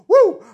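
very high loud whooping yell; Flair woo. Acted. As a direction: let rip a signature woo.

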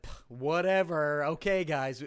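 lightly put-on British accent, drawn out and loud; half-hearted British accent that sounds Californian; joke British accent. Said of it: "That's my British accent".

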